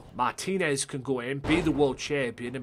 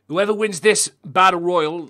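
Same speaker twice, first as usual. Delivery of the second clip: ring announcer; 4 semitones higher, 9 dB louder than usual. Real, not acted. Announcing the match stakes.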